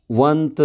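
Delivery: वंत said as one separate, drawn-out beat; syllable beat. Shown as a demonstration. Teacher clapping out the name's second syllable, syllable beat. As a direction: sound out वंत on its own for a clap. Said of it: "say your name clapping for each syllable".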